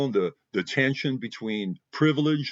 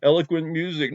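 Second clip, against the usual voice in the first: Hamlet reciting; 3 semitones lower than usual. Retold or imitated. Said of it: "He said, you know".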